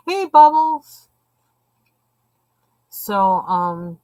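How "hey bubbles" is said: pet greeting. Real, not acted.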